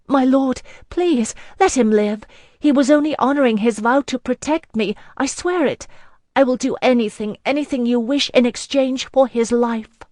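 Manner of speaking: high, loud, urgent begging; pleading. Acted. Kneeling girl begging the lord to spare her protector, high loud plea. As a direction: beg for his life, words tumbling out. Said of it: "pleading with clasped hands".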